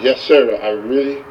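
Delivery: low-pitched, restrained frustration; mildly exasperated acted reply; a little frustrated. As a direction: answer with a touch of frustration. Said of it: "The young man's a little frustrated".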